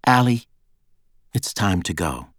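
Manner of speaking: gently telling her it is time; gentle. A narrator's reading. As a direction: gently lead her out of the car. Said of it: "Nina said gently".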